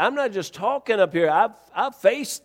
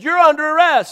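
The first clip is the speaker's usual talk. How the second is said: loud, raised arrest announcement; retold officer's insistence; 9 semitones higher, 7 dB louder than usual. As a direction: overrule him as the irritated officer.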